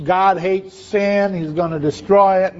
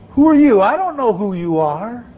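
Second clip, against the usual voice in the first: indignant celebrity. Pretend. Anthony Perkins snubbing the stranger.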